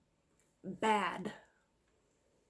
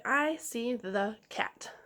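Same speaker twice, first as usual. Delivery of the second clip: each word said slowly and clearly for the class to repeat; slow model sentence; much slower than usual. Shown as a demonstration. Teacher to young readers, slow clear model sentence. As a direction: model it slowly so they can echo it. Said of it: "Repeat that sentence".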